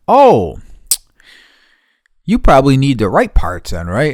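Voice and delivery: high, loud mock-innocent question; mock clerk voice. Mocking the clerk who finally remembers the parts, high and loud. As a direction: act like the dim clerk who just figured it out. Mimicking clerk's belated realization.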